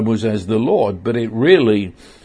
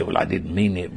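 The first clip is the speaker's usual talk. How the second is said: low, soft, dismissive excuse; mock sheepish excuse; 6 semitones lower, 5 dB quieter, faster than usual. Listener excusing careless words to God, sheepish. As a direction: mumble a lame excuse, lower and softer.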